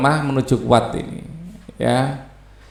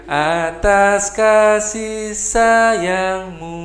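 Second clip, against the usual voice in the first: sayangmu ending on a high mu; teacher shows the high note on mu; 5 semitones higher, much slower than usual. Shown as a demonstration. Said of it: "munya tinggi ya".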